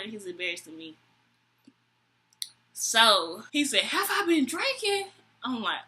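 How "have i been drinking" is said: high-pitched incredulous drunk imitation; mock offended drunk. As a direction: echo the question as an indignant drunk. Drunk date answers the manager.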